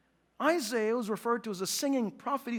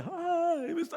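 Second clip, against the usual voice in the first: higher, drawn-out mimicry; mock pre-K greeting; 3 semitones higher, 4 dB quieter, slower than usual. Dad mimics the greeting he dreads, mock sing-song. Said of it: "'Cause I don't wanna hear".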